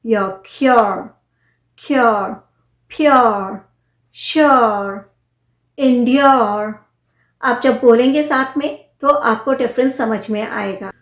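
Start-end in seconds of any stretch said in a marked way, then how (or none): 0.1-6.7 क्योर, प्योर, श्योर each with a y glide into or, slow and stressed; demo of the yor sound. Shown as a demonstration. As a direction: drill the words one by one with a clear य. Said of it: "इसका sound है य".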